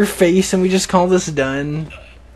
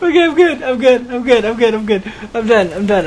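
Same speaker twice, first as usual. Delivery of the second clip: recovering from laughter; 4 semitones higher than usual. Real, not acted.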